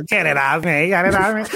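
lightly mimicked repeated plea; imitated plea. Showing friends how the character sounds, lightly imitated plea. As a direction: mimic his repeated cry, only lightly. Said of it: "that's literally how he sounds like".

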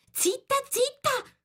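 very high, urgent, stretched shushing; agitated hushing. A narrator's reading. Nervous Rabbit silences Alice, agitated. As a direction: hush her urgently in a high voice. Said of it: "tono basso e concitato".

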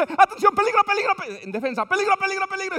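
high, loud urgent warning; Latin commentator. Retold or imitated. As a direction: build tension like a radio narrator. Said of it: "La jugada dice".

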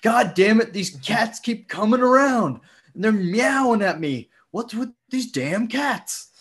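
high, loud mock Chicago accent, slowing at the end; bad Chicago accent. Neighbor in a fake Chicago accent complaining about stray cats. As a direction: ham up a Chicago local griping about cats. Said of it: "that cannot be your Chicago accent".

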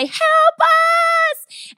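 high, pleading cry for help; panicked plea. Retold or imitated. Bursting into the vet ER with the dog, a high panicked plea. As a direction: beg for help with mock panic.

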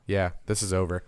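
ordinary talk

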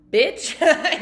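loud, high-pitched "bitch"; mock-confrontational outburst; blunt callout. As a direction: call out a friend sharply and loudly. Friends' blunt callout, acted.

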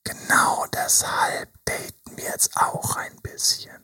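slow, hushed coaching whisper; slow soft whisper, voice of resolve; intimate whisper. Acted. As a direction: whisper it right into their ear. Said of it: "meine Stimme hören".

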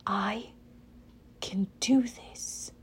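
soft, slow whisper to herself; girl talking herself into it. A narrator's reading. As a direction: breathe it to steady nerves. Talia steeling herself.

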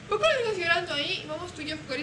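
a hint of a small girl's voice; lightly voiced little girl. Seven-year-old asking the babysitter to play, lightly imitated high voice.

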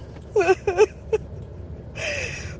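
laughs high and long, rising at the end; giggling at her own spider story; high burst of laughter. Real, not acted. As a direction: break into a real laugh.

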